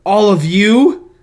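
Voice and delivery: put-on slow, solemn old-timey proclamation; mysterious old-timey reading. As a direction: read it like an ancient decree. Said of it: "glorious, like, mysterious old-timey line".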